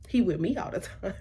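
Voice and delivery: soft, under-the-breath protest; quietly baffled aside; hushed disbelief. Retold or imitated. Quieter first take of protest.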